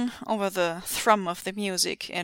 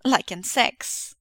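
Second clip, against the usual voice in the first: coquettish; 2 semitones higher, slower than usual. Acted. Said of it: "grinning coquettishly".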